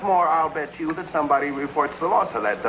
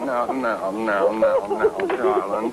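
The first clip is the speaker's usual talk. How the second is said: low-pitched, comforting murmurs of sympathy; calm her down in a low voice; soothing; 7 semitones lower, much slower than usual. Acted. Husband calms his crying wife, soothing.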